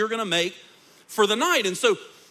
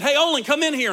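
retold yell; 7 semitones higher, 8 dB louder, faster than usual. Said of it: "he yelled out my name".

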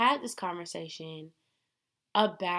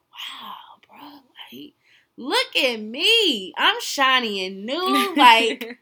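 excited; 6 semitones higher, 10 dB louder, slower than usual. Retold or imitated. Hyped imagined future self.

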